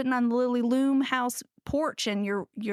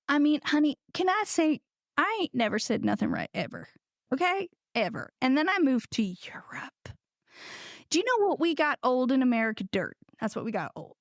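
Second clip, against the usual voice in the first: folksy down-home American accent; homegrown American accent. Shown as a demonstration. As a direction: lay on the homegrown country accent. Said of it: "not using this accent".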